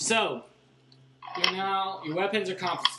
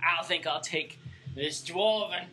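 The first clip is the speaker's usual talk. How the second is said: greedy boss admiring loot; 3 semitones higher, slower than usual. Acted. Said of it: "he says".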